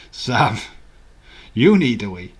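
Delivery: called out loud across the room; calling out. Real, not acted. Calling across to Sam that she needs the toilet, loudly. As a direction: shout it over to Sam.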